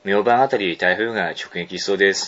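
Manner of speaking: measured, low read-aloud; mail reading. Acted. Host reading a listener's closing line, even mail reading. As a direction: read the letter's sign-off evenly.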